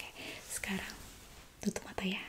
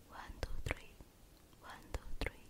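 whispering in ear. Acted. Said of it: "saya akan membisikkan beberapa kata ke telinga kamu".

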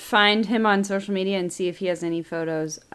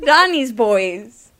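Italian impression; much slower than usual. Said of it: "I'm doing my shruggies again".

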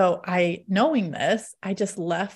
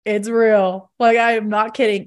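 laughing insistence; 2 semitones higher, 6 dB louder than usual. Retold or imitated. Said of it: "So I just kind of start laughing".

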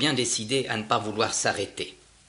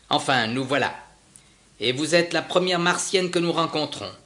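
a louder, higher, eager ship's captain; hearty captain; 4 semitones higher, 4 dB louder than usual. Acted. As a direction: announce yourselves proudly on her doorstep. Captain voiced proudly. (capitaine enjoué, voix plus haute et plus forte)

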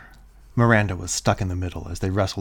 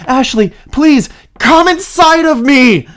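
pleading; 17 dB louder, slower than usual. Acted. Same pleading continues.

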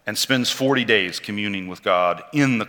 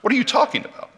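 scolding protest, the question jumps much higher; mock scolding; 6 semitones higher than usual. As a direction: play Peter telling Jesus off in alarm. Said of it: "reads him the riot act".

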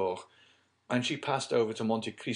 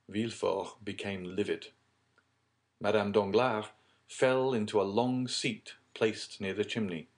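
usual speaking voice

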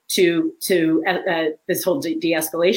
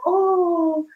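put-on higher, eager teen daughter; 11 semitones higher, much slower than usual. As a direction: play the daughter jumping to help. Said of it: "my daughter's like".

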